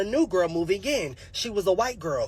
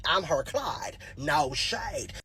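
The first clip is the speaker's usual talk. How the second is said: ordinary talk, nothing marked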